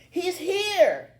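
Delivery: high, loud announcing shout. A narrator's reading. Kid announcing Billy's arrival to homeroom, shouting. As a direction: shout it to the whole room. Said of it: "a kid shouts".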